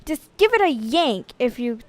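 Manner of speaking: put-on insistent boy. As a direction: swear it's true like a kid. Butch insists.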